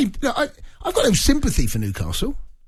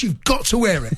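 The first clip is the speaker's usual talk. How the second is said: shouted saying. Real, not acted. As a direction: bellow the end of the saying like a catchphrase. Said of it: "make up your own saying".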